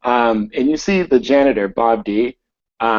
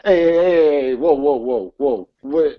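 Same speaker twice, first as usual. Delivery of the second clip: panicked; 6 semitones higher, 3 dB louder than usual. Acted. Manager panics at gun.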